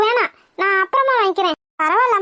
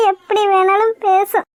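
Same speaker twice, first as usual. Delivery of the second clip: crying. Acted. Daughter hurt by gossip, crying.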